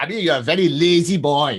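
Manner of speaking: put-on loud Welsh accent. Recalling the speaker's old physics teacher from Aberystwyth, imitating Mrs Fraser. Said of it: "rather than Anthony Hopkins".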